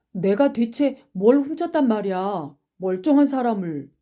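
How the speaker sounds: heated self-defence; indignant protest. Acted. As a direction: protest at being wrongly accused. Accused boy protests innocence.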